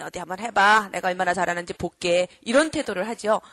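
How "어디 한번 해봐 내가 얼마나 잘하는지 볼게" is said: low, dismissive show-me challenge; sceptical non-listener. Acted. Non-listener sizing up the speaker, low and dismissive. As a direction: act out someone daring you to impress them. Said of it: "경청 모르는 사람이요, 이렇게, 이런 태도를 하죠".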